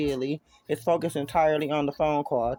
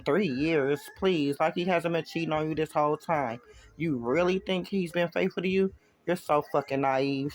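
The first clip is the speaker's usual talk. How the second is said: mocking. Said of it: "her voice mocking".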